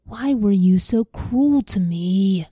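slow, mild moan of grief; a touch of a grieving moan, slow. Acted. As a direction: let the old father's hurt drag the words out slowly. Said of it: "Jacob moaned".

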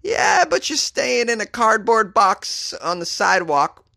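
a light mock host admitting the truth; mock host confession. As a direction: play the honest host, drawn out. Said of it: "but they don't tell you".

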